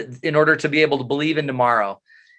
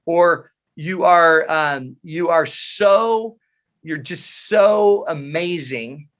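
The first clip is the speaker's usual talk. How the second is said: slow, drawn-out gushing praise; mock gushing; much slower than usual. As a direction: lay the flattery on thick and slow.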